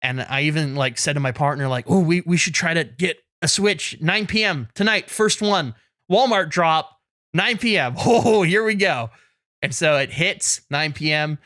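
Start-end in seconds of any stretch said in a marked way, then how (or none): 1.9-9.1 mildly giddy, punchy build-up to the big moment; retold excitement. Telling a partner about tonight's Switch drop, excited. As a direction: act out eager anticipation, rising a little. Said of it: "So I was all excited".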